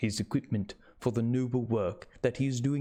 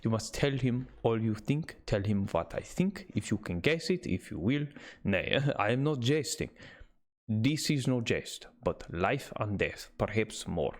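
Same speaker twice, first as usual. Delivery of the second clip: put-on Dutch accent. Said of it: "German, yeah".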